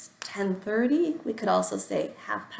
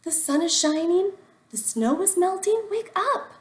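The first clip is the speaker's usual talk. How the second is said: high and loud, bursting with news; excited high calling; 9 semitones higher, 6 dB louder than usual. A narrator's reading. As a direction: coax him out with joy. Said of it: "cried Frog".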